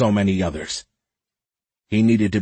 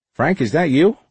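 higher, louder, taken aback; sudden recognition, pitched up; surprised guard; 7 semitones higher, 4 dB louder than usual. A narrator's reading.

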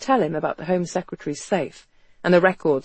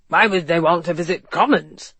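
puzzled commissioner. A narrator's reading. Puzzled Commissioner voiced by the narrator.

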